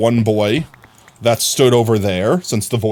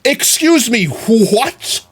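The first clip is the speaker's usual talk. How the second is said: shocked; 10 semitones higher, 4 dB louder, much slower than usual. Real, not acted. Shocked by villager's move.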